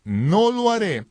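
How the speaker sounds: slow, emphatic refusal; Jesús. Retold or imitated. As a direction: declare it firmly, stretching the key words. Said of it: "Y Jesús dijo". (negativa solemne y pausada)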